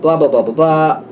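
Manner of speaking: mildly mocking brush-off; flippant. The one who lost a house, making light of it, flippant. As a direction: imitate someone glibly waving it away. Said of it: "like, very flippant".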